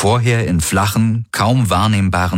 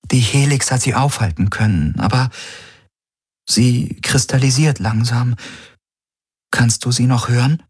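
higher, tentative female character voice; gentle, careful; 5 semitones higher than usual. A narrator's reading. Kirai explains the spreading crystals to the patient, gently. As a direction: explain cautiously, pausing. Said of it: "sagte Kirai behutsam".

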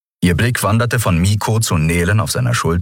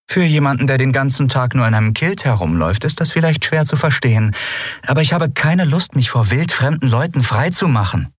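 higher-pitched character voice, unyielding; firm, higher-voiced refusal; defiant young woman; 8 semitones higher than usual. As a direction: answer back defiantly in a raised pitch. Voices Lien's defiant reply to Keru.

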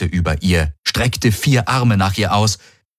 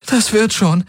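high, stress on Das, falling; holding back sobs; 14 semitones higher than usual. A narrator's reading. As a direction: force out "Das" bravely, choking on tears. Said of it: "unterdrückte ein Schluchzen". (Schluchzen unterdrückend, Betonung auf "Das")

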